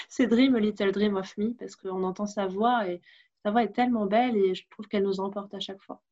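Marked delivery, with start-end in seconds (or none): 0.3-1.5 song title said with an English accent. Real, not acted. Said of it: "j'ai un accent anglais terrible".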